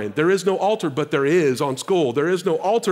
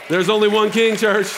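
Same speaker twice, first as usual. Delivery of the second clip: rising preaching shout; 5 semitones higher, 5 dB louder than usual. Real, not acted. Preacher's climax to congregation.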